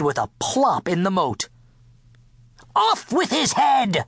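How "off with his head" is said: high-pitched, imperious storybook shout; shouted royal order. A narrator's reading. King condemning the cook, shouting. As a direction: cry it out high like an outraged king. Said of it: "the king shouted at the cook".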